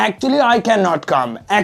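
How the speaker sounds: Actually I cannot come, each word stretched slowly; slow model sentence. Shown as a demonstration. Teacher slowly modelling an excuse for students. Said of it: "की जगह बोलेंगे".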